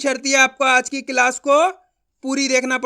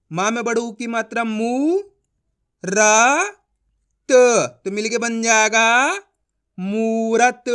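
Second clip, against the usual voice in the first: syllable-by-syllable sounding out; 3 dB louder, much slower than usual. Shown as a demonstration. Teacher shows a class how to blend letters, slow and spaced. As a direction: separate each letter with pauses, then blend into मूरत. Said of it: "मेरा तरीका follow करना है".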